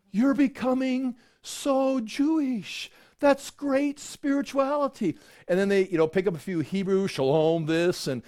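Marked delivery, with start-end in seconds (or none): 0.1-5.2 higher, slow, sugary praise; gushing admirer. Acted. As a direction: fawn over them, slowly. People gushing over new convert.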